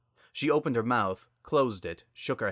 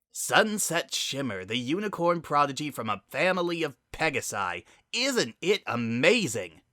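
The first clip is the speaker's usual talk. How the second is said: mock announcement; 6 semitones higher than usual. Spitfire mocks sister's fame.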